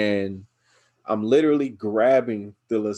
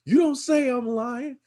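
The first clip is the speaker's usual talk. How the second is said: stern mom; 13 semitones higher than usual. Retold or imitated. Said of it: "She was like".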